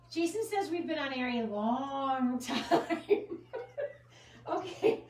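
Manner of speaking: real laughter breaking into slow words; laughing. Real, not acted. Host reads Jason's teasing comment on air, laughing. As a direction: read it out while cracking up, stretching the words.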